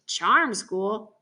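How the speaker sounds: questioning echo with a rising end; incredulous echo. A narrator's reading. Boy scoffs at hearing where Piper is, incredulous echo. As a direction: throw it back as a scoffing question. Boy echoes the answer in disbelief.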